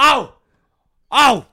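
high, loud delighted cry; excited. Real, not acted. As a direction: whoop at the lucky segue. Delight at perfect segue.

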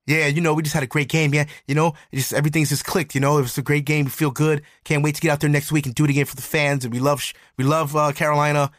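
lightly acted upbeat post-game interview patter; happy voice. Quarterback talks to reporters after a win, happy voice. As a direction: imitate a pleased winner rattling through stock answers. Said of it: "that's the happy voice".

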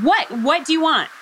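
brisk, curt What; impatient, clipped-off reply; short with him. Retold or imitated. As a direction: brush him off quickly. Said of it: "I'm still kind of being short with him".

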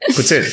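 demonstrating "Poutine" with the S; proper pronunciation. Shown as a demonstration. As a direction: say "Poutine" with a crisp ts before a short i. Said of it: "a better way of saying it".

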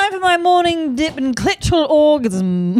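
mock lady voice. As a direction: voice the lady giggling through it. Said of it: "She's like".

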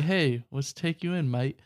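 lightly put-on English mate accent; mock English accent. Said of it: "that's exactly how they would say it too".

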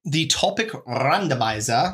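randomizer with a trilled rolled R. Pretend. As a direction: roll the R in randomizer hard. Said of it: "why are you rolling your R's".

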